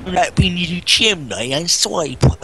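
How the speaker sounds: mangled mock Cockney; Dick Van Dyke. Imitating the chimney sweep for a friend, bad Cockney. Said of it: "he has the worst Cockney accent".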